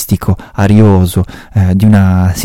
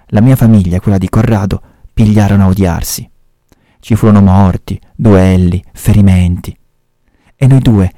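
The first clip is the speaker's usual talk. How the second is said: measured reading-aloud voice; story narration. A narrator's reading. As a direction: tell the story steadily, like a reader. Reads a Camilleri story aloud.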